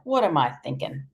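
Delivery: soft unvoiced self-correction; whispered aside. Grandfather correcting himself, whispered aside. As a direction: whisper it to yourself.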